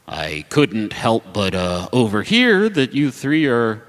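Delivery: low, slow gravelly stranger; deep voice. Acted. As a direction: lean in, low and slow, overhearing. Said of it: "you hear a deep voice say".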